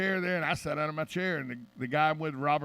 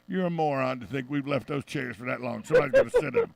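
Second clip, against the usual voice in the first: exasperated retort; 4 semitones lower than usual. Retold or imitated. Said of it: "I go".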